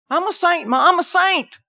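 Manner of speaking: high-pitched proud declaration to Ma; high, eager calling to mother; excited announcement. Acted. Acted announcement to family.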